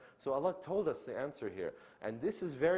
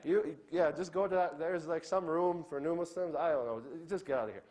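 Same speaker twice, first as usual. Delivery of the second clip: dismissive mock brush-off; 5 semitones higher than usual. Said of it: "after they say it".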